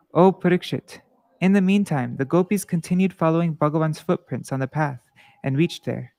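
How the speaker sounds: measured read-aloud of a sacred verse; scripture reading. A narrator's reading. Reader gives the verse about the gopis to listeners, measured scripture reading. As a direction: read the translation out with steady, deliberate phrasing.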